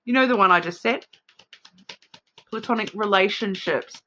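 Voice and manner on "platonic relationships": New Zealand-accented "Platonic relationships". Real, not acted. Host showing viewers the word she can't say properly, New Zealand accent. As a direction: say "Platonic relationships" with Kiwi vowels. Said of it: "cannot say without the New Zealand accent".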